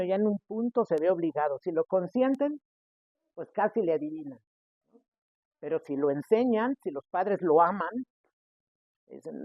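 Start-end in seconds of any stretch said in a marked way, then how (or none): none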